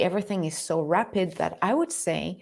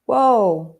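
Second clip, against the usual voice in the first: surprised whoa; 6 dB louder than usual. Real, not acted. Reacting to a viewer comment.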